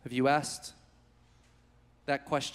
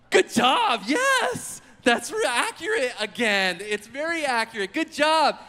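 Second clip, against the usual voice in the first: teacher praise; 3 semitones higher than usual. Retold or imitated. Teacher praising eager pupil.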